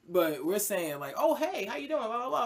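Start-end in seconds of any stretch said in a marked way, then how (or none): 1.2-2.4 lightly put-on white voice, pitched higher; a quick mock of a chirpy white voice; sketching a white voice for the friends. Shown as a demonstration. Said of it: "really put that shit on".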